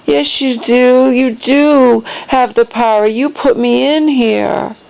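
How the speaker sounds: lightly acted reproach; insistent mother. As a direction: imitate a mom arguing back. Voices mom arguing back.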